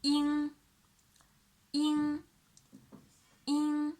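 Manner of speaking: "in" drilled for students; clear demo syllable. Shown as a demonstration. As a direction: model "in" with the tongue back. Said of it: "And the next one".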